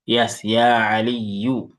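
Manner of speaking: Ya Aliyu drawn out slowly, vowel ya lengthened; slow model reading. Shown as a demonstration. Teacher modelling the vocative for a student, slow and clear. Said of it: "Initially, it is Aliyun".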